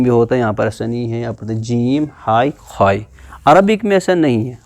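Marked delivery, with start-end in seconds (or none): 2.3-3.0 ہائی and خائی said the Urdu way; name ہائی, خائی as in Urdu; Urdu letter names. Shown as a demonstration. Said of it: "Urdu میں ان letters کو کیسے پڑھتے ہیں".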